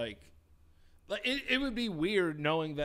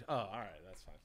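mom's shrug; 9 semitones lower, 11 dB quieter, faster than usual. Retold or imitated. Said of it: "it's just girl doesn't like me".

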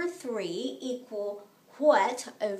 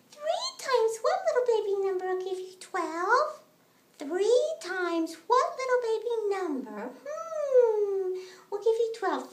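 put-on baby voice; 6 semitones higher than usual. Teacher voicing Baby for kids.

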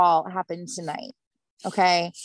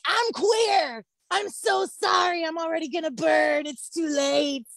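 mock apology; 6 semitones higher than usual. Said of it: "I just wanted to be like".

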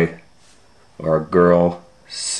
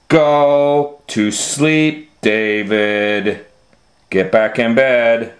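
firm bedtime order. Acted. Parent sends child to bed.

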